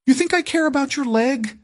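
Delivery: hissed in anger. A narrator's reading. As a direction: spit it at him, trembling with fury. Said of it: "she hissed".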